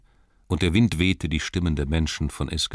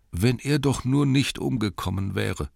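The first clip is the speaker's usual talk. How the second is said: townsfolk voice; 8 semitones higher than usual. Acted. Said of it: "sagten sie alle".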